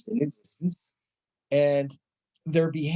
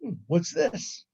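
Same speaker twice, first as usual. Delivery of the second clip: slow, higher musing hmm; 7 semitones higher, slower than usual. Retold or imitated. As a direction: slowly puzzle over it aloud. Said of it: "it happened again when he just turned the lights on".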